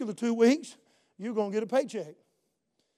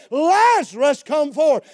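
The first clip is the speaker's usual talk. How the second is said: raised scripture quote, moderately forceful; preacher's measured calling voice; loud cry; 5 semitones higher, 7 dB louder, slower than usual. Retold or imitated. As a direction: call out as if summoning someone. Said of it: "he cried with a loud voice".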